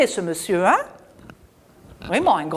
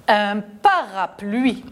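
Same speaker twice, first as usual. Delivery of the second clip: slow syllables; slower than usual. Shown as a demonstration. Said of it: "On a trois syllabes".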